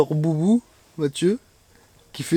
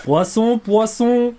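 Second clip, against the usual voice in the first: high, loud call of the word poisson; excited call; 8 semitones higher, 4 dB louder, much slower than usual. Real, not acted. Calling out a fish. (cri excité)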